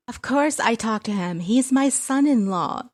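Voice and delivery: high, loud, slowing at the end; mother defending. Acted. Mother defends son-in-law.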